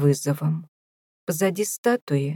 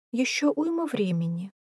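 softer and higher, through a yawn; 6 semitones higher, 4 dB quieter than usual. Acted. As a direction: yawn the words out lazily. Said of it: "зевнула Беатрис Джоанна".

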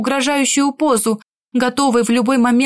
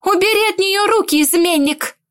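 higher, sharp shouted order; shouting; 7 semitones higher than usual. A narrator's reading. Sister defending the bride, shouting at groom. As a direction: yell at the traitor groom. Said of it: "закричала Кьяра".

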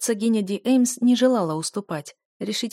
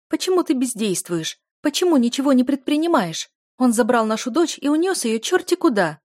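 higher, louder, gasping for air between words; breathless outrage; 6 semitones higher, 6 dB louder than usual. A narrator's reading. Duchess, frantic at her husband over their daughter, breathless outrage. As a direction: choke out the outrage, panicked. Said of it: "захлёбывалась воздухом герцогиня".

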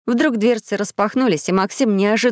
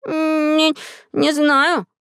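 high, slow, unsure mumble; confused; 7 semitones higher, much slower than usual. Acted. Lost Maxim answering Gumgam, high and slow, unsure. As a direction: hesitate like a lost boy who has no idea. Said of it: "растерянно отвечал Максим".

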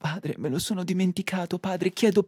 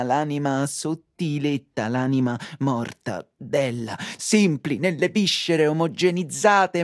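mock love poem; 2 semitones lower than usual. Lover declaiming to the supermarket, mock-passionate. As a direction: recite it as a hammed-up ode.

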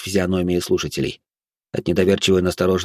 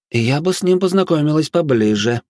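higher-pitched, with a predatory smirk; 8 semitones higher than usual. A narrator's reading. Sirena angling to meet Sigurd's helper, predatory smirk. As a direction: purr of interest from a huntress on the prowl. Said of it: "хищно усмехнулась Сирена".

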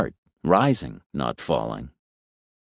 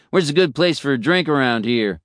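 jovial roadie; 7 semitones higher than usual. Acted. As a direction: call out cheerfully like a chummy roadie. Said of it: "he said jovially".

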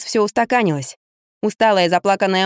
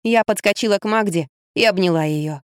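usual speaking voice

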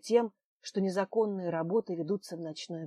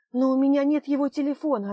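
louder, higher call with stress on нет; shouted reply; 6 semitones higher, 8 dB louder than usual. Acted. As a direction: call out нет loudly after him. She shouts back as Lev is taken.

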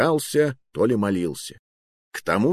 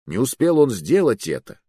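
usual speaking voice

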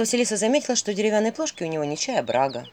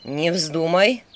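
terrible shout; 2 semitones lower, 3 dB louder, much slower than usual. Acted. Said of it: "закричал Филин страшным голосом".

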